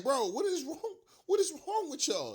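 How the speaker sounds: high, laughing what is wrong; half-laughing at the fans' foolishness; laughing disbelief. Retold or imitated. Fan laughing at other fans in disbelief. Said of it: "I'm like".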